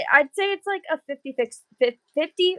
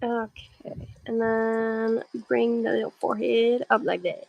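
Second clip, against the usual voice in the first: soft unvoiced whisper; 3 dB quieter, slower than usual. Real, not acted. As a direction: whisper it like ASMR. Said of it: "Why am I talking like that?".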